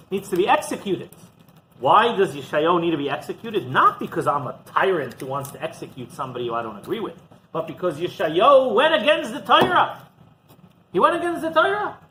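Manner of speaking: a tyrant justifying the execution; wicked king. Acted.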